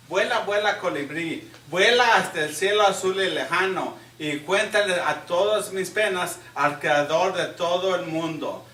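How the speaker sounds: emphatic Spanish poetry reading; poem recitation. Real, not acted. Host reading an absent young winner's poem aloud, poem recitation. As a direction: declaim the poem in measured phrases, leaning on line openings.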